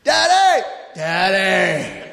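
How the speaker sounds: mock kid's call breaking into a laugh; child calling out. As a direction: mimic a little boy calling Daddy. Son calling from his bed.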